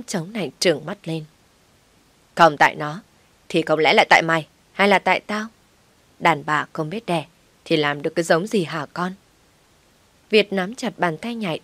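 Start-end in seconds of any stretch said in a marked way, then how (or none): 2.3-9.1 jab at the son with scorn; angry scolding. Acted. Mother-in-law blames barren wife.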